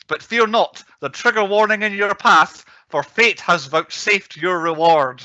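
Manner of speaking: prophesy the episode like a Southern soothsayer; mock old-timey Southern accent. Host foretelling a perilous podcast, hammed Southern accent. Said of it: "I don't know if that was an offensive accent or not".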